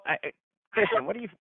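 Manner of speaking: ordinary delivery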